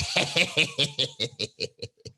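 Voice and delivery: mock scheming cackle; imitated triumphant laughter; imitated gloating laugh. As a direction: cackle as if the plan worked. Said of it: "Then she'll be like".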